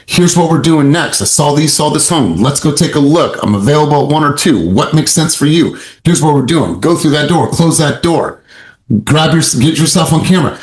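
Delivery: steady, falling phrase endings; downswing tonality. Shown as a demonstration. Coach modelling confident agent talk, firm and falling. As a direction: lead the client, land every sentence down. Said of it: "associated with the downswing".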